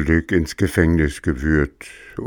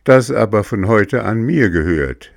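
rude; 4 semitones higher, 4 dB louder than usual. Acted. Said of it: "ergänzte Bengele grob".

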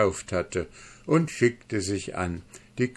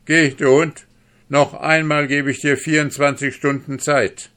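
high, loud defiant shout; furious vow; 7 semitones higher, 7 dB louder than usual. Acted. Duke swears before his guest, furious. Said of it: "So rief der Herzog".

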